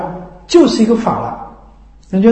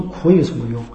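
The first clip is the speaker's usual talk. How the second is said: chuckling through the words, softer; laughing retort; 7 semitones lower, 5 dB quieter than usual. Retold or imitated. Master to the weeping devotee, amused laugh. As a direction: laugh off the crying as pointless.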